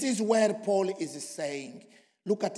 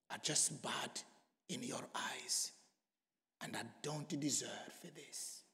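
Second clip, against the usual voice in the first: low, hushed prayer with long pauses; hushed confession; 4 semitones lower than usual. Acted. Sinner confessing to the Lord, hushed and humble.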